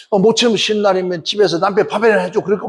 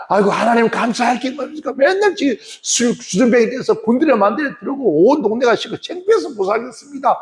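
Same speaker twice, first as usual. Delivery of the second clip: higher, whiny complaint; exasperated protest; 7 semitones higher than usual. Retold or imitated. Wife protesting to God about her drunk husband, exasperated.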